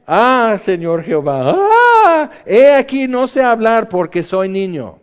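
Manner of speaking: put-on terrified wail of a prophet who feels too young; frightened cry. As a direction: cry out "Ah, Señor Jehová" in fear like a scared boy. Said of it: "él está espantado".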